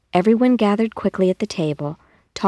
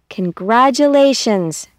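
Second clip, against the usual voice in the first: slow, higher happy cry; cried out; 5 semitones higher, 4 dB louder than usual. Acted. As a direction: grocer cheering the family on. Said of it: "cried Mister Dianetti".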